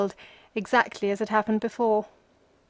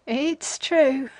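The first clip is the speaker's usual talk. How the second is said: dry cackle; 4 semitones higher than usual. A narrator's reading. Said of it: "with a dry cackle".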